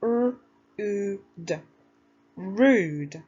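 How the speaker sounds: R, oo, d pinched then blended into Rude; sounded out. Shown as a demonstration. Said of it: "let's use our sounds".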